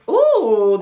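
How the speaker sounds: loud excited ooh; a loud, teasing ooh at the spicy card; a loud, delighted ooh. Real, not acted.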